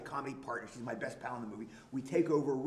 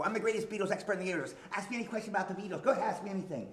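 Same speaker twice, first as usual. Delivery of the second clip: higher, fast, boastful show-off patter; boastful know-it-all; 5 semitones higher, faster than usual. Retold or imitated. The speaker replays his movie bit for the host, fast and boastful. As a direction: rattle it off like a smug expert on a band. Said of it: "I'll go".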